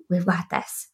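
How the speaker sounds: soft exhale, then hushed words; bracing oneself. Retold or imitated. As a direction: breathe out and steel yourself quietly. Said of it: "just bracing myself for impact".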